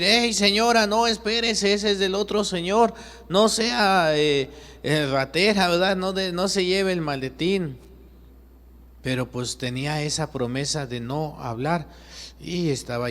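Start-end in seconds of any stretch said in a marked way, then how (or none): 0.0-7.8 shouting to stop her. Acted. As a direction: yell after her so she drops the briefcase. Juan wants to shout from cross. (Juan grita desde la cruz a la señora, alto y urgente)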